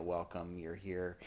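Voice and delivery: softly imitating a preacher; a hint of a warm welcome. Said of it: "the preacher gets up and says".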